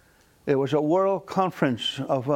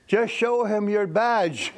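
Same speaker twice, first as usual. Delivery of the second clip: laughing yell; 6 semitones higher, slower than usual. Retold or imitated. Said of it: "Ron yelled".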